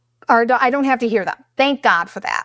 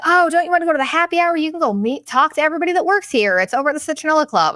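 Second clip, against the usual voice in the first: chirpy staff voice; 6 semitones higher, faster than usual. Retold or imitated. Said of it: "And they're like".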